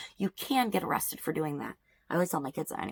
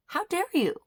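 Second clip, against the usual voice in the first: rising outrage; 12 semitones higher than usual. Real, not acted. Angry, escalating.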